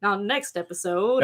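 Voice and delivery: announcer voice. Pretend. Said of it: "You sound like an announcer".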